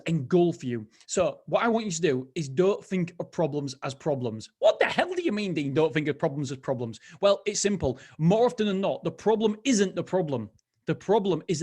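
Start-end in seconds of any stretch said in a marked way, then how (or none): 4.6-7.0 mock-sceptical listener, pitched up; baffled listener. Host voices a baffled listener.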